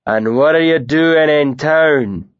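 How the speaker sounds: a big bearded man feigning friendliness; lightly voiced northern bully; Tam, northern brute.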